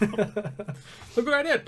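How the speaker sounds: high, slow laughing mimic of the brag; mocking laugh. Cohost teasing the roommate story, laughing mimicry. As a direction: parody the brag while laughing.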